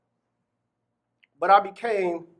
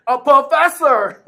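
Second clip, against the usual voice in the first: louder, slow, savouring it; excited; 5 semitones higher, 9 dB louder, slower than usual. Real, not acted. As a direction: stretch the word out proudly. Emphasises news, laughing.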